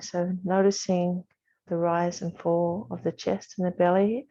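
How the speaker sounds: calm, measured yoga teacher guidance; unhurried meditation voice, evenly pitched; guided meditation. Real, not acted. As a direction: settle them gently into the breath, with long pauses. Leads a seated breathing meditation.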